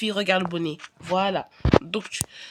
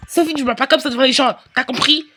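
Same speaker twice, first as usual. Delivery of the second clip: fast, louder telling-off; sharp scolding; 6 dB louder than usual. Acted. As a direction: snap at the child in public. Mother scolds, repeated calmer. (la mère gronde sèchement, plus fort)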